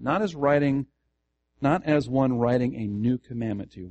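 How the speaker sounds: firm weight on "Not" and "new"; emphatic reading. Shown as a demonstration. Pastor repeats the verse so listeners find the emphasis, emphatic. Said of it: "Where is the emphasis?".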